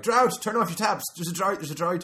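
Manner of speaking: shouted alarm, then winding down; mock panic announcement. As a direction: cry drought like a frantic news alert. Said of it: "it'll be like".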